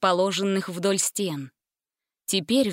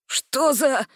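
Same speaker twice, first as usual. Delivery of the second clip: higher, cut-off exclamation; startled; 5 semitones higher than usual. A narrator's reading. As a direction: blurt it in bewilderment. Jenkins shocked, cut off.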